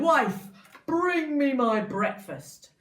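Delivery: loud, slow giant command; giant's order. Acted. Giant demanding breakfast from his wife, loud and slow. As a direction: bark it like a greedy giant.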